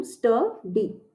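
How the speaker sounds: "स्टडी" said slowly and clearly, falling at the end; careful pronunciation. Shown as a demonstration. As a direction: repeat "स्टडी" slowly for the class. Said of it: "उच्चारण ध्यान से समझिए". ("स्टडी" धीरे और साफ़, अंत में स्वर गिराते हुए)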